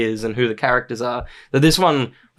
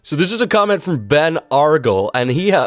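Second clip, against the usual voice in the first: put-on comic character voice, lively swings in pitch; hammy celebrity impersonation, playfully overdone; funny Martin Short voice. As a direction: read it out in a silly, theatrical voice. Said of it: "I'm gonna do a funny voice".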